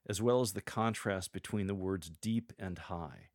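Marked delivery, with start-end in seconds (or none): 2.1-2.5 deep said rising, set against high; contrast deep and high. Shown as a demonstration. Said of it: "Accentuate them with the tone of your voice". 2.8-3.3 high said falling and softer, set against deep; contrast deep and high. Shown as a demonstration. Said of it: "Accentuate them with the tone of your voice".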